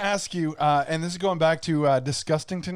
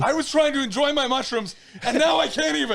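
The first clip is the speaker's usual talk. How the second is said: laughing through the words, pitched up; 6 semitones higher than usual. Real, not acted. Cohost joining the cyclist joke, laughing through the words. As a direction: giggle while playing along with the bit.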